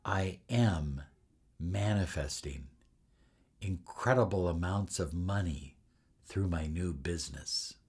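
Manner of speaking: soft, calm, certain statement of intention. Shown as a demonstration. Speaking an intention over the honey, calm and certain. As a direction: say it relaxed and sure, at peace. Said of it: "in a way that was calm and relaxed and certain".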